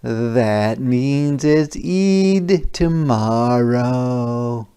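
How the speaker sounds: slow, gentle mother figure; lightly voiced mom, drawn out. Mom voice in read-aloud story.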